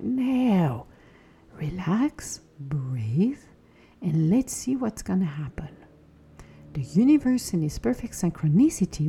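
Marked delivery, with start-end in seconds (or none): 0.0-5.7 whispered soothing to yourself; calming whisper. Retold or imitated. Telling a panicking self to relax, in a whisper. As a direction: breathe it out in a hush, calming. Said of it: "And it's like".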